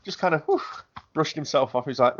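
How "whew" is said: high puff of breath; quick imitated "whew" of recovery. Friend mimics man brushing himself off after falling, whew.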